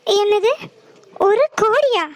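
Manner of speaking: high, stunned double-take; a crore?! in disbelief; shocked disbelief. Acted. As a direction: react as if the sum is absurd.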